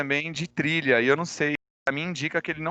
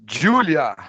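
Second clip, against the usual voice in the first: calling out; 8 dB louder than usual. Real, not acted. Teacher calling a student's name loudly in class. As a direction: call her name out loud across the online class.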